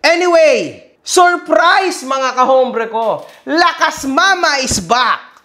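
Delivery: gleeful drawn-out reveal; excited announcement. Real, not acted. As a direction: announce the surprise with glee. Gleeful news reveal to viewers.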